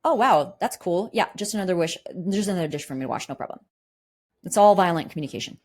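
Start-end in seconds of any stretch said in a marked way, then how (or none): 0.0-3.6 imitating a sarcastic, passive-aggressive partner. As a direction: fake breezy "no problem" dripping with resentment. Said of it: "or passive aggressively".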